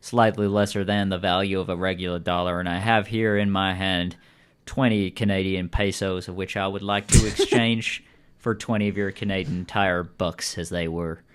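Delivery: lightly voiced folksy old-fashioned speechmaker; formal stranger. Stranger proposing a money swap to customer, lightly formal. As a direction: offer it with measured, wordy courtesy.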